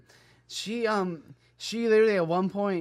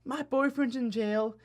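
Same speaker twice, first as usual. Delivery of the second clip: slow put-on voice, starting high and sinking; imitated homeless woman; 4 semitones higher, slower than usual. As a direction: plead slowly in her voice, dropping off at the end. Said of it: "she's like".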